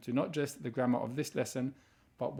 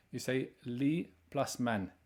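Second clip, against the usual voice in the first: slow explanation; slower than usual. Shown as a demonstration.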